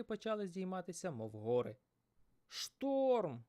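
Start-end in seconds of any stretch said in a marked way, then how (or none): 2.5-3.4 loud high cry of alarm; exclaimed. Acted. Fisherman warning of the storm, loud and high. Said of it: "вигукнув Михайло".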